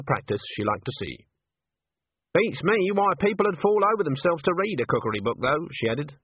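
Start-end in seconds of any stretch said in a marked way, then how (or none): 2.3-5.7 put-on high-pitched puzzled old witch; higher, mildly baffled granny; Granny's dialogue. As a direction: muse aloud in a character voice. Voices Granny in the story.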